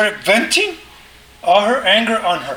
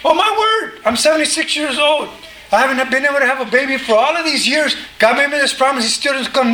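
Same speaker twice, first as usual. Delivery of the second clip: frustrated Sarah; 3 semitones higher than usual. Acted. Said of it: "she was absolutely frustrated".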